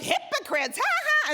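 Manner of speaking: high-pitched imitated jeering laugh; mocking laughter. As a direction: jeer and cackle like the hecklers, hammed up. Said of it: "they're laughing at us".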